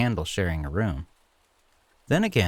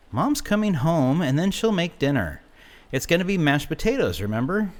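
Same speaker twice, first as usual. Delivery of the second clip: higher, quick pleading voice; coaxing plea; 8 semitones higher than usual. A narrator's reading. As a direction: talk him out of it, hurried. Grandson pleading with grandpa.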